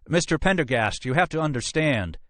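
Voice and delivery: high-pitched urgent appeal; pleading captain. Acted. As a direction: plead as you try to keep up. Captain pleads, struggling to keep up.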